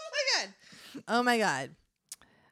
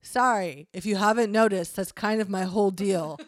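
lightly voiced devil, a bit louder; 5 dB louder than usual. Devil excusing himself to his roommate, lightly voiced devil. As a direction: own up to it as the devil. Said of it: "I will make a devil voice".

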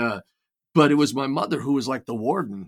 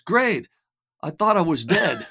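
put-on higher, lifted voice of an old father waking up; imitating elderly father; 5 semitones higher, 5 dB louder than usual. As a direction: play the frail old dad, pitched up. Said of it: "He goes".

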